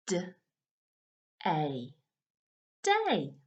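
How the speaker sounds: D, A, day: sounds split then blended; sounding out words. Shown as a demonstration. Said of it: "sound them out together using our fingers".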